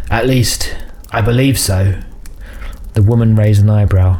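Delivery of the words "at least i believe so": uncertain, hedging answer; mildly nervous underling; hesitant. Acted. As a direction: back off from your own claim. Nervous answer to a stern patron.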